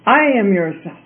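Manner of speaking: lightly dramatized high plea; crying out. A narrator's reading. Trapped self begging the princess for release, mild high cry. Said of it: "cried the voice again".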